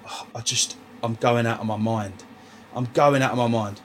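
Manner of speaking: low, defeated sigh of despair; retold misery. Sat on a sofa retelling how miserable he was, dejected. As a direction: mimic giving up, low and quiet. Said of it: "I'm so miserable".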